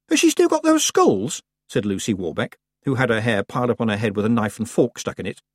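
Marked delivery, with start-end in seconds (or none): 0.1-1.4 put-on high, eager teenage girl; excited girl voice. A narrator's reading. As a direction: ask with ghoulish curiosity. Lucy voiced in story.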